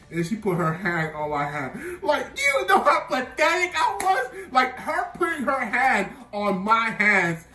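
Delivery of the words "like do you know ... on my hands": much higher, louder, laughing; laughing at himself. Real, not acted. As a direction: crack up at how pathetic he was. Laughing at own past self.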